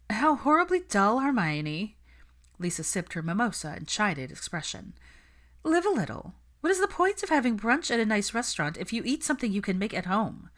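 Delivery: condescending Lisa. Acted. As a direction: look down your nose at her. Lisa mocks Hermione.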